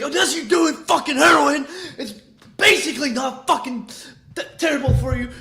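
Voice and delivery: hammed-up irritated rant about drugs; imitating pissed J-Dog. Retelling J-Dog's rant to his viewers, mock angry yell. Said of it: "He's fucking pissed over there".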